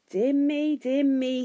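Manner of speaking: high-pitched, fussy dismay; mildly alarmed little figure; flustered hobbit. A narrator's reading. Bilbo flustered on the wall.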